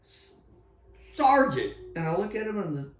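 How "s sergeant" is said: high-pitched, raised hail; acted calling out. Running up on a sergeant in fog, retold calling out. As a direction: call out to stop someone ahead.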